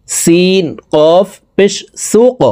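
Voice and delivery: slow spelling, final কফ in সুক given an echoing upward jolt; qalqalah bounce. Shown as a demonstration. Teacher showing students how to bounce the qaf. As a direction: bounce the last sound of সুক upward with a push. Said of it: "কফ কলকলার হরফ উপরের দিকে ধাবিত করে ধাক্কা দিয়ে উচ্চারণ করব".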